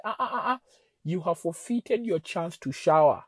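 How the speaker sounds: retold stern decree, starting high; upset. Husband forbidding wife a shower, upset and commanding. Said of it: "I was very upset".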